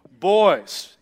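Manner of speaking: put-on loud stern call to the kids; a dad's loud warning call. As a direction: call the boys to order like a fed-up dad. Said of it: "this dad voice that comes out of me".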